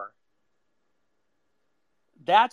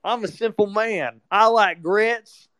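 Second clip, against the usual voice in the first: simple Southern man; 3 semitones higher than usual. Retold or imitated. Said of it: "more Southern and more stupid".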